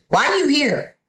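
high, sharp challenge; challenging woman. Retold or imitated. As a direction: throw the question at her, high. Woman challenges her in auditorium.

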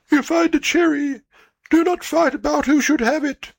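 high, earnest parental voice. Acted. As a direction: lift into a fussy parent's voice. Old parents' advice voiced.

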